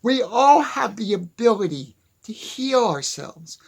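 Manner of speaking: breathy whispered statement. Real, not acted. To viewers, a whispered opening belief. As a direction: whisper it like a secret truth.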